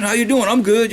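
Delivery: lightly voiced breezy exchange; casual greeting. Preacher repeats the modern greeting, lightly mocking. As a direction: toss it off like small talk. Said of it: "You see what I'm saying?".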